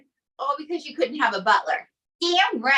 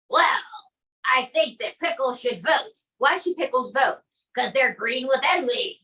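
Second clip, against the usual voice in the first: Trump impression. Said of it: "Donald J Trump".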